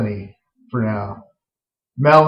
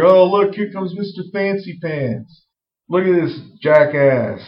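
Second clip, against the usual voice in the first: put-on higher sneering jeer at the boyfriend; mocking; 4 semitones higher than usual. Family mocking the sister's boyfriend, sneering. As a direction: jeer at him as he walks in. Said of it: "they're like".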